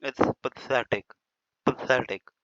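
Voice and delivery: a lightly voiced fussy teacher's very slow it's pathetic; mocking English teacher. Teacher mocks the English teacher's fussy pathetic. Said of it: "लेकिन नहीं".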